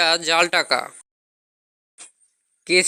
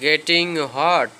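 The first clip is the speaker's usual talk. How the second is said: very slow English phrase; slow model phrase; slow teaching model; much slower than usual. Shown as a demonstration. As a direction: stretch it out for learners. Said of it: "গরম হচ্ছে".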